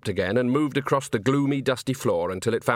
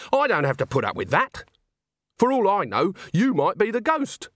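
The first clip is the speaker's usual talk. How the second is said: higher-pitched indignant retort; anger; 9 semitones higher than usual. A narrator's reading. Agnes answers back to a man who threatened her, angry. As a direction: fear turning into mild anger, voiced in character. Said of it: "metamorphose into anger".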